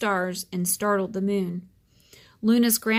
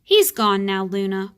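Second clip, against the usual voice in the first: louder call to the hiding moon; 6 dB louder than usual. Acted. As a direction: call her out of the cave. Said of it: "called the roundest fish".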